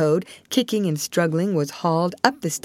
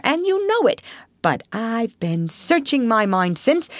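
boastful Toad; 7 semitones higher than usual. Acted. Toad pleads his case.

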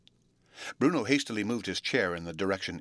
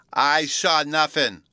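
sadly; 8 semitones higher, 9 dB louder, much slower than usual. A narrator's reading. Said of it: "Bruno sadly replied".

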